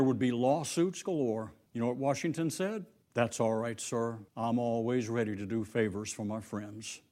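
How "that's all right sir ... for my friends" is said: softer, lower, gentle reply; humble reply. Acted. Washington answers the white man gently, softly. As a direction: answer with quiet grace.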